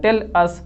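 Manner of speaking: "tell us" softly, without weight or lengthening; unstressed syllables. Shown as a demonstration. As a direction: let "tell us" go by lightly. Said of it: "इसमें कोई time नहीं लगता". ("tell us" हल्के से, बिना ज़ोर)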